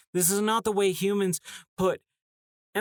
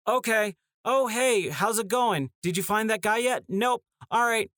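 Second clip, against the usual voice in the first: higher, chirpy mock NPC voice; lightly voiced cheerful game characters; mock game dialogue; 6 semitones higher than usual. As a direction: parody a flat video game exchange. Mocking the game's bland dialogue.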